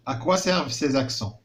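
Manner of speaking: À quoi servent ces accents asked slowly, quoi stressed; slow teacher question. Shown as a demonstration. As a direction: put the question slowly to pupils. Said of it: "كنلاحظوا قال لك".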